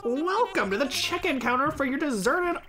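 cheerful game host voice. Acted. Reads game host's lines.

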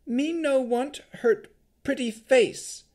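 very high, slow, loud golem; big childlike creature voice. A narrator's reading. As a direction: speak high and slowly like a simple creature.

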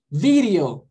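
"Video" with a very short tapped D, like an R. Shown as a demonstration. Teacher demonstrating the short English D, "Video" with tapped D. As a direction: flick the D in "Video", "vi-rio". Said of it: "bem curtinho".

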